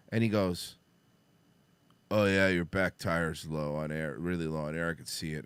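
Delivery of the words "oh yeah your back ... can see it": dopey attendant. Retold or imitated. Slow low voicing of attendant.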